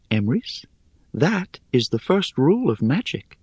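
high, airy, teasing spider; airy little voice. Acted. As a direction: toss it off lightly, amused. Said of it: "she continued in her airy little voice".

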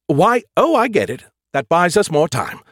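high, eager sudden realization; excited realization. A narrator's reading. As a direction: voice jumps up with the idea.

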